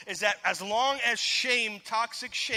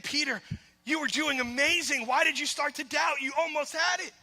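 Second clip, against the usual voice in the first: encouraging Jesus voice; 5 semitones higher than usual. Retold or imitated. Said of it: "I believe that he was saying".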